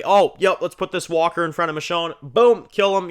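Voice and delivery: high, loud breezy mock ease; mock casual. Rick covering for Michonne, high breezy mock casual. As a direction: pretend it's no big deal. Rick's fake casual act voiced.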